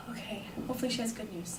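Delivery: very soft, quick thought after a sigh; hushed cautious hope. Retold or imitated. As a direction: brace yourself under your breath. Bracing herself as woman returns.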